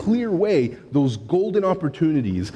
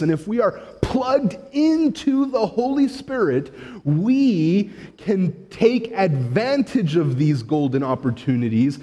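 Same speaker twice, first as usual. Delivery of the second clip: emphatic preaching; 5 semitones higher than usual. Real, not acted. Preaches the lesson of the story.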